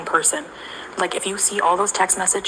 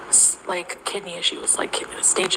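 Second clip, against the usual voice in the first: sudden whisper; 5 dB quieter, slower than usual. Real, not acted. Drops to whisper mid-story.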